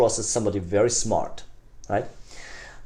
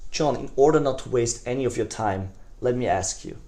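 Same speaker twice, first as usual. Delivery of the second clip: gentle caring, lightly voiced, no real impression; Bill Clinton caring voice. Shown as a demonstration. Salesman reassuring prospect John, gently caring. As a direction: sound like you truly care about his time. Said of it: "this Bill Clinton voice".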